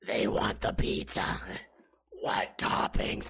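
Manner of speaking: low, slow, raspy server voice; Marge. Retold or imitated. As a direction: croak out the order like the bartender. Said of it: "They both had the same voice".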